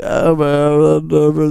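low, droning slurred babble; low-pitched impression of incoherent babbling; a rock singer. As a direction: blur it into a low wordless ramble. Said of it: "She should have just been like".

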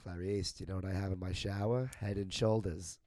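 a hint of a creepy doctor; Hannibal Lecter impression. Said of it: "Silence of the Lambs".

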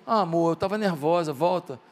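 low, gentle mock plea; soft coaxing. Woman asks the man she sent away to return, soft coaxing.

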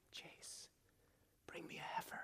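soft unvoiced whisper, very hushed; whisper of God. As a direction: breathe the command like a divine whisper. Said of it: "you hear the whisper of God".

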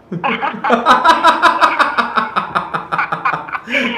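long rising amused laugh. Real, not acted. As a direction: crack up laughing. Host laughs at caller.

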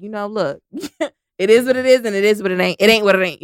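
casual, quick and punchy as it goes; normal voice. Retold or imitated. Telling her students how it is, in her normal casual voice. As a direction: loosen up into everyday vernacular, laugh in it. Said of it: "I spoke my normal ass voice".

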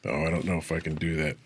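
ordinary delivery

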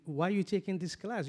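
ordinary talk

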